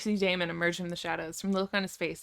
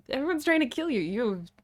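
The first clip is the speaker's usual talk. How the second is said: laughing; 7 semitones higher, 4 dB louder than usual. Real, not acted. Laughing sarcastic aside.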